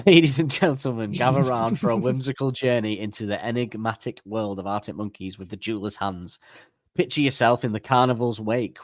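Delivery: theatrical announcer reading a whimsical blurb; grand announcer reading. Acted. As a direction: present it like a ringmaster. Reads the AI episode description.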